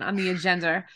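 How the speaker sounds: New York vowels on agenda; Staten Island accent. Acted. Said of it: "like, Staten Island".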